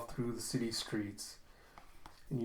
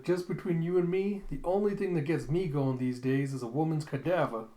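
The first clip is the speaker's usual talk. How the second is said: confiding madam; 3 semitones higher, 3 dB louder than usual. Acted. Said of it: "And she's like".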